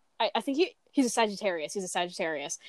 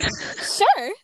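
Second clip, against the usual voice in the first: high, louder put-on child's agreement; imitated meek kid; 10 semitones higher, 5 dB louder than usual. Acts out agreeing to mom's scrubbing.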